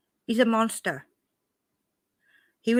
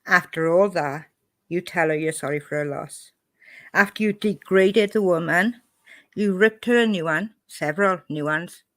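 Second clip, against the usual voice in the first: louder, heated telling-off; angry outburst; 4 dB louder than usual. Real, not acted. Scolding Molly over her cruel words, angry and loud. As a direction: rip into her for what she said.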